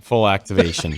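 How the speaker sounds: laughing through the words; chuckling while repeating it. Real, not acted.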